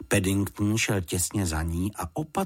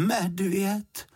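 much higher questioning disbelief; doubtful repeat; 11 semitones higher than usual. A narrator's reading. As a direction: repeat it, not believing a word. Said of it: "opakovala paní Ptáčková pochybovačně".

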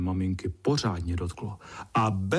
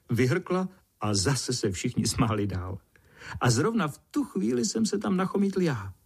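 plain reading voice

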